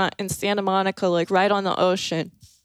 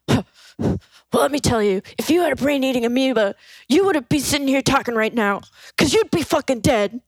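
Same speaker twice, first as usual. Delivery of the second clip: fast, slightly raised know-it-all lecture; imitating a singer; 4 semitones higher, faster than usual. The singer lecturing the teller about amoebas. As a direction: rattle it off, correcting him.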